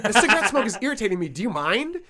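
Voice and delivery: quick mock-indignant snob; snooty older man. Older man scolding the smoker beside him, snooty. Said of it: "kinda snooty white guy in a polo".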